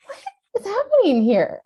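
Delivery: high, loud, laughing cry of disbelief; half-shouted laughing "what is happening here". Retold or imitated. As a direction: throw it up in amused bewilderment. Mother baffled by son's remarks.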